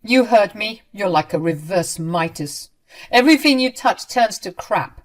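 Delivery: loud, scornful tirade; berating. Acted. Ramona insulting her daughter-in-law, loud and contemptuous. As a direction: pile on the insults. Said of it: "started going off again".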